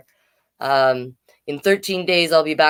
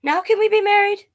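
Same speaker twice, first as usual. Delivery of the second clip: little worm asking again, high; pleading worm. Acted. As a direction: ask it wistfully, stretched out.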